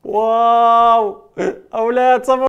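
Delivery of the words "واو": amazed wow. Acted. Host marvelling for the children, wow drawn out. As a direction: marvel loudly at the trick.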